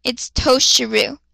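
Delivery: slow, calm correction; steady measured calm. Acted. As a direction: correct her calmly and slowly. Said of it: "he spoke calmly".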